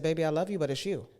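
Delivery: imitating mom's Southern accent; lightly voiced Southern mama, loving but frank. Mom telling a child hard truth, Southern accent. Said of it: "in her Southern accent".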